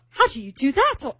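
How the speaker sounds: mock-British puzzled question; British accent. British date baffled by two families' holidays, in a put-on British accent. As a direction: imitate a baffled British man. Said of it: "doing with the accent".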